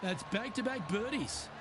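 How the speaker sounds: excited shout as the putt drops; excited call. Real, not acted. Putt drops, commentator exclaims.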